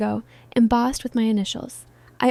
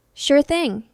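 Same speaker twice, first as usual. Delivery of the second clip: bright, perky chirp; chirpy; 4 semitones higher, 3 dB louder than usual. Acted. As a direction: chirp it cheerfully. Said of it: "she chirped".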